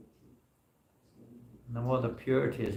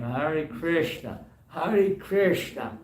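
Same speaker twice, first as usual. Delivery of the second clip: slow, drawn-out mimicked greeting, rising higher; imitating street devotees; 5 semitones higher, 3 dB louder, much slower than usual. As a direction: stretch it out like the motley crew greeting you. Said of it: "you know, like this".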